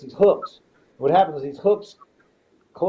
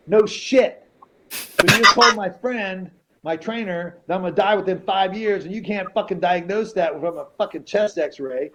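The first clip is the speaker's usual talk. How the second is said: indignant retort, raised in pitch at the start; retold indignant outburst; 4 semitones higher than usual. Patient retells confronting the nurse over the x-ray, indignant. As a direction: re-enact telling someone off, incredulous.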